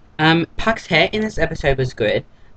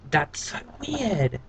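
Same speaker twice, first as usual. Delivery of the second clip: slow, hushed, higher That's so weird; softer weirded-out; 4 semitones higher, 6 dB quieter, slower than usual. Real, not acted. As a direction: murmur it, half to yourself, disturbed. Repeats reaction more quietly.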